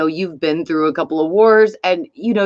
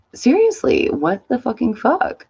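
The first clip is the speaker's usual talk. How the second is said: incredulous outburst; 5 semitones higher than usual. Real, not acted. Annoyed shopper seeing a line out the door, incredulous. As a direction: pitch jumps up on seriously, disbelief.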